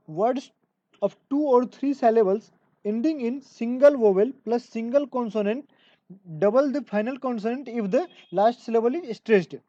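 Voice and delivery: slow, careful dictation of an English rule; reading a rule aloud. Acted. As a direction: spell out the rule word by word for students. (धीमी गति से नियम पढ़कर सुनाना)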